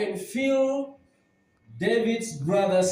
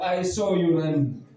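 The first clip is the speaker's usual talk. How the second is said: lower, different voice; mocking jab; 6 semitones lower than usual. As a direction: tease him about fleeing in a low mock voice. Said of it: "he comes like saying".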